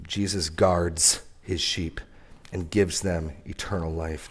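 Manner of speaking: Jesus guards his sheep drawn out very slowly and softly; slow, solemn first statement. Shown as a demonstration. Preacher savoring the promise for the church, very slow and soft. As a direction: let each word of guards land slowly. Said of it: "this is amazingly good news".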